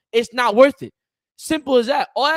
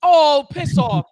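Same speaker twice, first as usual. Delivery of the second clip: exasperated; 4 semitones higher, 6 dB louder, much slower than usual. Real, not acted. Dismissing co-host's jab.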